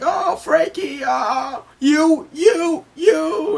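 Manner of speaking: high, loud, speechless gushing; Luffy starstruck. Acted. Luffy gushes at Franky with stars in his eyes, squealing. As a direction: stammer in squealing awe.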